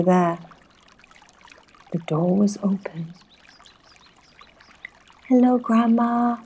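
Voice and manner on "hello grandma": put-on high, loud girl's greeting; calling out. A narrator's reading. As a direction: call out brightly to Grandma. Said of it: "cried Little Red Riding Hood".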